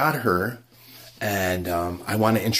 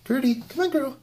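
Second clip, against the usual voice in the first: high sing-song coaxing of a pet; high pet-calling voice. Acted. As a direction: coax the little pet out, way up high. Calling pet again before reveal.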